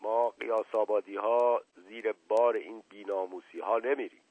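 lightly voiced evasive servant; a hint of a humble servant, hedging as he reports; reluctant servant. Servant begins his tale.

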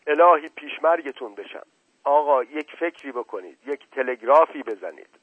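a worried mother pleading with her brother-in-law; moaning plea. A narrator's reading. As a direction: beg him, half moaning. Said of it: "ناله کنان گفت".

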